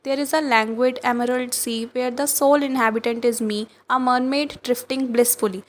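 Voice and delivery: slow, dreamy poem reading; poem recitation. Acted. Teacher reading Amanda's mermaid daydream, slow recitation. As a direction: let the lines drift slowly.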